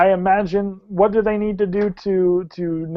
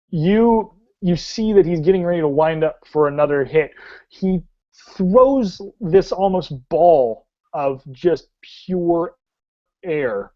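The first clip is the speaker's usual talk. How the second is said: animated scene setting with drawn-out action words; dramatic tabletop storytelling; game master narration. Acted. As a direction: paint the action vividly, stretching key verbs.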